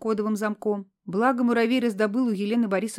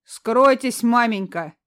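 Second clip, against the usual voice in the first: creaky voice; 2 semitones higher, 7 dB louder, slower than usual. Acted. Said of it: "проскрипел красномордый человек".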